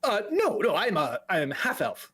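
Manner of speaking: nervous mage giggling between stumbles; flustered, hesitant, jumping high in pitch; anxious fella. Acted. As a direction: stammer and titter apologetically. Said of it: "anxious fella kind of walks up to you".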